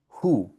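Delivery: "ju" as German hu, H audible; sounded H. Shown as a demonstration. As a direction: breathe the H into "ju", like hoo. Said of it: "La H con la U".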